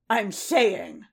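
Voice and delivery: snarling. Acted. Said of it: "Boba snarled, his voice thick with anger".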